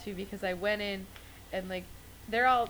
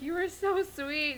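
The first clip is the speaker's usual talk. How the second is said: sweet; 8 semitones higher, slower than usual. Retold or imitated. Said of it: "she was like".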